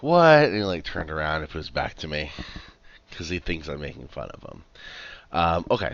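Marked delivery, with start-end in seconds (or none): 0.0-0.5 loud, high mock "what?"; put-on indignant outburst; imitated grumpy dog. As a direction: throw it out high and loud, as if affronted. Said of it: "and he's like".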